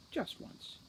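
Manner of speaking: breathy, hushed punchline; soft hushed aside, full of threat; ominous whisper. A narrator's reading. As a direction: drop to a menacing whisper. Narrator's ominous aside about Butler.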